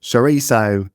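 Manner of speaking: mimicked Aussie CHORIZO; playful Australian attempt; imitated Australian accent. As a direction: copy the Australian way of saying "chorizo". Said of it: "some people that pronounce it like this".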